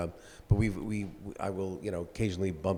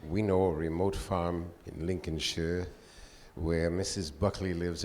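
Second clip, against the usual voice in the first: Orson Welles impression. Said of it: "my Orson Welles in mind".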